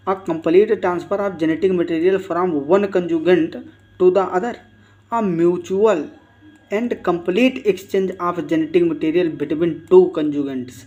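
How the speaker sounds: slow, drawn-out reading of an exam option; reading a quiz option. Acted. Teacher reads the quiz option aloud to students, very slowly. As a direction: read it out word by word for the class.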